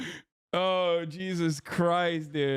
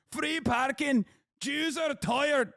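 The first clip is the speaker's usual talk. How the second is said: mocking repeat; 6 semitones higher, slower than usual. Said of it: "mocking repeat".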